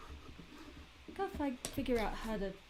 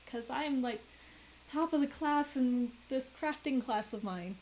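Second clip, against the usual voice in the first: mocking schoolgirl tease; 4 semitones higher, 3 dB louder than usual. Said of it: "she's just laughing at him".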